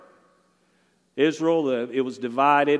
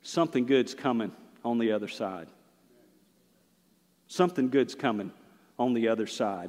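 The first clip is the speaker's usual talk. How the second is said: reassuring; 5 semitones lower, 6 dB quieter than usual. Shown as a demonstration. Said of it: "If you sow them properly".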